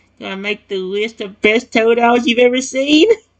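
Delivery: cheerful, high-pitched voice with a slight squeak. Reading a story aloud, voicing the little creature: slightly squeaky, cheerful tone. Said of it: "in a slightly squeaky but cheerful tone".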